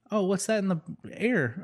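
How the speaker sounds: light high-pitched Swedish sailor voice; Swedish boater voice. Acted. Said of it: "I'm not gonna do a Swedish accent".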